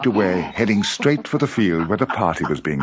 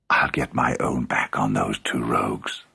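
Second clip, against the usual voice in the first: low, softer scheming voice; scheming Anansi; 10 semitones lower, 5 dB quieter than usual. A narrator's reading. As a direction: plot revenge under your breath.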